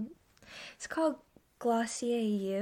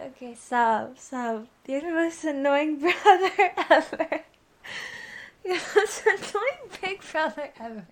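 laughing, higher and louder; being tickled; 4 semitones higher, 6 dB louder than usual. Real, not acted. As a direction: giggly protest while squirming. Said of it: "I'm too ticklish".

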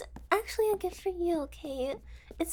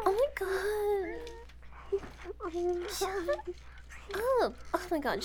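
usual speaking voice

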